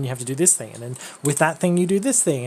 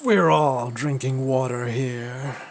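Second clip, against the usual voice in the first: Soldier 76 voice; 3 semitones lower, slower than usual. Retold or imitated. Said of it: "made me think of Soldier seventy-six".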